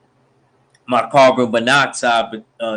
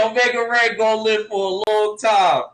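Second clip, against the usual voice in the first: much higher excited call; hyped; 9 semitones higher than usual. Acted. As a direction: shout it like a fan losing it. Hyped reaction, repeated after.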